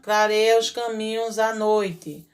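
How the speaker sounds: reads the sentence slowly and clearly; slow reading aloud. Shown as a demonstration. Teacher reads the exercise sentence slowly to her class. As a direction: lets each word land for the pupils. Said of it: "como é a luz clara da lua?".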